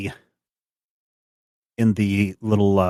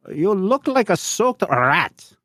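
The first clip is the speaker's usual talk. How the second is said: high, slow guard voice; sneering German guard; 11 semitones higher, slower than usual. Acted. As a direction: sneer it down at a wet farmer. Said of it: "says in German".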